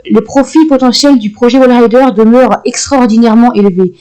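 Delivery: measured formal read of a report; document reading. Acted. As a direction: read it like an official memo. Reads an in-game document aloud.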